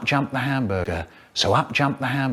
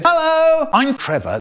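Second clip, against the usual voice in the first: high-pitched comic greeting; Trevor's hello; 13 semitones higher than usual. Acted. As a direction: put on a much higher voice to say hi. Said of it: "So Trevor said".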